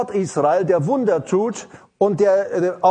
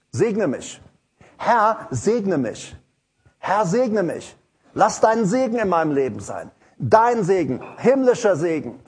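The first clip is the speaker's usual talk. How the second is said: simple earnest prayer. Pretend. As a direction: plead simply with God for blessing. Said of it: "er geht ganz einfach her". (schlichtes, flehendes Gebet)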